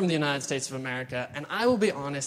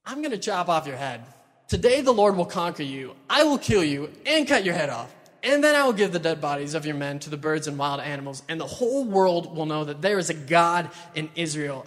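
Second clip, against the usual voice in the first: rousing speech; 3 dB louder than usual. Retold or imitated. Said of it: "that he's yelling at this Philistine".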